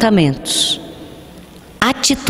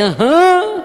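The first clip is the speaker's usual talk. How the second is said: put-on a high, prompting "Aham" from the child; a child waiting to be agreed with; expected agreement; 11 semitones higher than usual. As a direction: chime in with a high little "Aham". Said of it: "precisando que eu dissesse".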